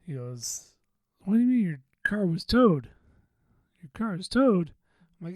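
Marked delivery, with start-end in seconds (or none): 1.2-4.7 loud, higher-pitched mock disbelief; imitated incredulous coworker. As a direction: play the coworker's baffled questioning, pitched up. Acted incredulous question from funny coworker.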